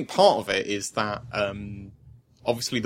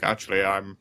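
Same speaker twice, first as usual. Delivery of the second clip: rough mock Geralt voice, laughing; a hammed-up Geralt with a laugh; Geralt impression; 3 semitones higher, 5 dB louder than usual. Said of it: "my flawless impression of Geralt".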